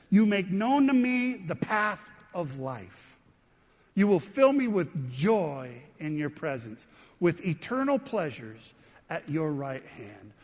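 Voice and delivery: measured, deliberate Bible verse reading; scripture reading. Acted. Preacher reading the verse to his congregation, measured and deliberate. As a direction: read it out slowly, phrase by phrase.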